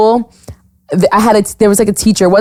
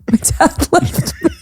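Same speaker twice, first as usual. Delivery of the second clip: serious deadpan; 7 semitones higher, 4 dB quieter than usual. Retold or imitated. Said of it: "look at him so serious and I go".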